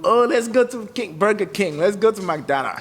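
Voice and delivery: mock excitement about fast food; mocking fast-food fan. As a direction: send up the burger crowd with a high sing-song. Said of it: "So I don't do".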